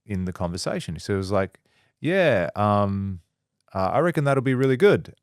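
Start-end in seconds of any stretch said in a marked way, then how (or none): 2.0-5.2 imitated chatbot filling with ums and ahs; lightly mock a hesitant, human-sounding AI. AI answering the user in conversation, hesitant with ums and ahs. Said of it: "it was saying ums and ahs".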